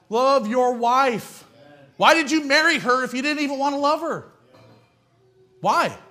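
rising preacher shout. Real, not acted. Preacher pleading with husbands, building to a shout.

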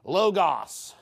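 "Logos" with an open second vowel, LOH-gahs; "Logos" as LOH-gahs, matter-of-fact; correct pronunciation. Shown as a demonstration. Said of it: "I actually said it correctly".

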